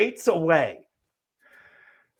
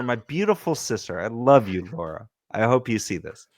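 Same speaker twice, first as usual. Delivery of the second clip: low, soft sincere aside; quietly fond, lower and softer; real affection; 6 semitones lower, 5 dB quieter than usual. Real, not acted. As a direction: drop down into a tender message to a sister. Affectionate aside to his sister.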